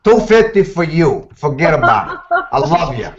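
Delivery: lightly voiced tough guy offering a favor; a hint of a streetwise fixer, pushy and reassuring; Sergeant Mayfield voice. Voice actor doing a requested character for the hosts, a light tough-guy fixer. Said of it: "Sergeant Mayfield".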